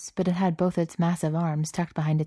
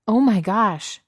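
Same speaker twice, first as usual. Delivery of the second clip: louder, higher startled cry; alarmed shout; 5 semitones higher, 7 dB louder, slower than usual. A narrator's reading. Stranger calling out to stop Cook touching the rose, alarmed shout. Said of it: "someone shouted".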